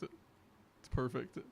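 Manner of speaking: it's perfect, dragged out very slow and savoured. Shown as a demonstration. Streamer admires the Dare shirt, slowly drawn out. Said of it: "repeats it, then drawn out".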